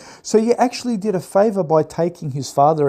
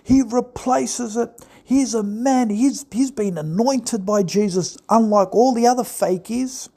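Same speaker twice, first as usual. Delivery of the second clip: mock Trump fan; 4 semitones higher than usual. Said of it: "You're going".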